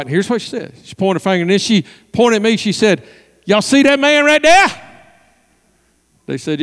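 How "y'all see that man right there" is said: high, emphatic demand rising at the end; forceful challenge. Retold or imitated. Woman pointing out pastor to visitors, forcefully. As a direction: imitate her calling visitors to attention.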